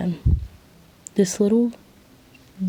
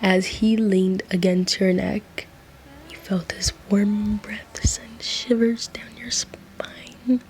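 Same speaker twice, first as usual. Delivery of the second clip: breathy, overdramatic narration; slower than usual. A narrator's reading. Narrator describing warm breath on your neck, hammed-up and breathy. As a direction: let the words shiver away slowly.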